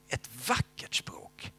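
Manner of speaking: slow hushed whisper, full of wonder; awed whisper. Real, not acted. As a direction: breathe it out in awe. Awed recall of tongues.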